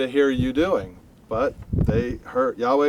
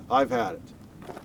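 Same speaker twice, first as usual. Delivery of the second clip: worn-out murmur; 3 semitones lower, 7 dB quieter, slower than usual. Acted. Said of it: "I've just had it".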